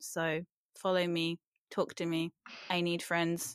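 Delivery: very sad-sounding voice. Speaker asking listeners to follow her social accounts, sad voice. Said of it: "you sound very sad".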